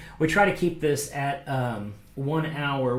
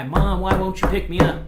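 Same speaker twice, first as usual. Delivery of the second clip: put-on higher, louder whiny toddler cry; toddler's mad cry; 5 semitones higher, 6 dB louder than usual. Toddler crying at mom behind the glass, mock whine. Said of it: "kind of cry".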